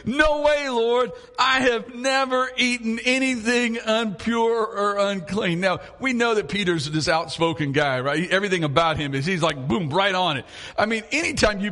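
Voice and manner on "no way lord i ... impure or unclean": Peter protesting. Acted. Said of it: "He says".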